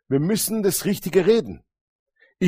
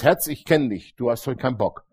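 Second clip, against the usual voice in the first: firm self-talk; 4 semitones lower than usual. Shown as a demonstration. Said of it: "wenn du dein Herz erziehst und sagst".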